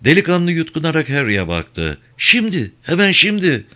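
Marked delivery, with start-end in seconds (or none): 2.2-3.7 put-on high-pitched, intimidated young man; cowed clerk answering under pressure; frightened clerk. A narrator's reading. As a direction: blurt it out in a high, scared voice.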